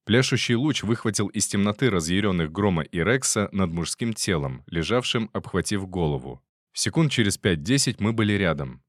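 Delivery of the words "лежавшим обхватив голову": ordinary delivery, nothing marked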